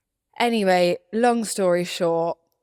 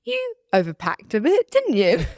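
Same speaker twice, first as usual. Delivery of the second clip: higher, dry teasing dad voice; 4 semitones higher, 3 dB louder than usual. Retold or imitated. Dad greeting her at the airport, lightly voiced teasing. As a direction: lightly voice her dad's deadpan jab. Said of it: "My dad goes to me".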